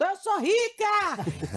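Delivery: put-on high, swooping child's battle cry. Retelling a child's jump into the pool: imitating a shouted battle cry. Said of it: "ela pulou e gritou".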